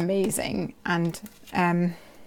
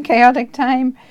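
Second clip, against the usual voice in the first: laughing repeat; 5 semitones higher, 9 dB louder, slower than usual. Real, not acted.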